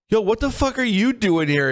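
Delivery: high, startled demand; startled shout. Retold or imitated. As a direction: blurt it out in shock. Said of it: "I'm like".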